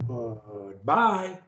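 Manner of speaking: GOODBYE from a soft, low, drawn-out GOOD, jumping up on BYE; start low. Shown as a demonstration. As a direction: begin deep, then leap up. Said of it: "either high or low".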